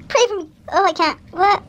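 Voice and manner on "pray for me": laugh-cry through the words, pitch a bit up; nervously giggling while asking for prayers; nervous laughing plea. Real, not acted. Vlogger to viewers, laughing nervously mid-procedure.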